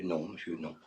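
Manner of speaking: barely audible low answer; imitated hushed deference; meek maid. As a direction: deny it softly to the boss. Timid maid answers the boss.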